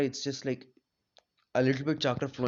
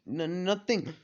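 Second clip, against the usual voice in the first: higher, lightly acted stammer; nervous stammer; 4 semitones higher, slower than usual. Boy caught hiding scrolls from his siblings, nervous stammer. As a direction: stumble into a hasty denial.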